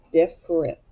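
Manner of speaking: "Different" in separated parts, diff... rent; syllable by syllable. Shown as a demonstration. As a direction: break "Different" up for learners. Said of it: "Second syllable".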